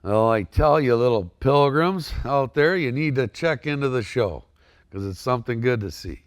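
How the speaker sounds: a hint of western cowboy; John Wayne impression. Shown as a demonstration. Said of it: "now do some John Wayne for us".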